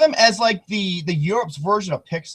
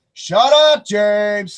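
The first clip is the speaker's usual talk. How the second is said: mock yell; 2 semitones higher, 4 dB louder, much slower than usual. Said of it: "I'll be like".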